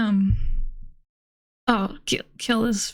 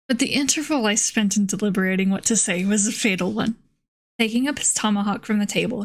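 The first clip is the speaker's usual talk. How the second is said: measured audiobook-style reading, even pitch; story narration. A narrator's reading. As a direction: read the old novel aloud evenly. Reads a novel aloud.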